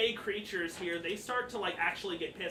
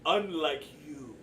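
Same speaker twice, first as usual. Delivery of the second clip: put-on slow, accented fae performer; haughty Gleam; 4 dB louder than usual. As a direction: draw it out with foreign-sounding vowels. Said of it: "Gleam looks at you and goes".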